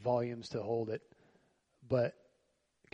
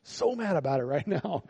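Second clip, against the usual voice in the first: higher, louder mock-angry Jonah; mad Jonah; 5 semitones higher, 3 dB louder than usual. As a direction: huff it out like a sulking prophet. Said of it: "He's like".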